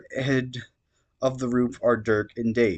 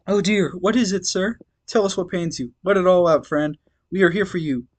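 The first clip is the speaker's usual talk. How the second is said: gentle comforting voice; 7 semitones higher than usual. Acted. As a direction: coo over him like a nurse. Calliope comforting Gamzee.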